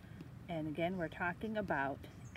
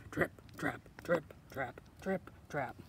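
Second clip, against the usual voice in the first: low, crisp trip-trap; measured, lower-pitched footsteps; middle goat's hoof steps; 5 semitones lower, 5 dB quieter than usual. Acted. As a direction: tap out each word like hooves. Middle goat crosses the bridge.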